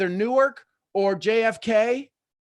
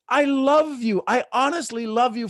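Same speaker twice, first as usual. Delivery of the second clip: excited declaration; 5 semitones higher, 3 dB louder than usual. Real, not acted. Declaring love to audience.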